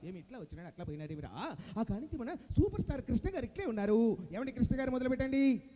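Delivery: grumble, then present the next star; Jayaprakash Reddy impression. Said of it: "Jayaprakash Reddy గారు".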